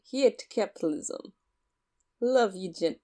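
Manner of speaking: hesitant attempt at a Russian accent. Friend taking a turn at the spy line, Russian accent. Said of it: "Do a Russian accent for me".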